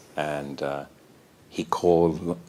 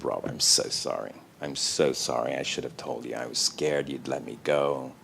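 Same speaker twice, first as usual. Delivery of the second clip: a lightly played lower apology, breaking down; mock breaking down; 3 semitones lower than usual. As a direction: confess in a low, sorry voice, slowing at the end. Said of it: "I just broke down".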